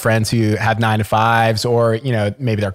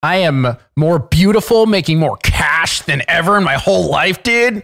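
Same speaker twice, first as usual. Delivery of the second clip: boastful; 5 semitones higher than usual. Pretend. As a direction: brag it big and proud. Boastful bragging.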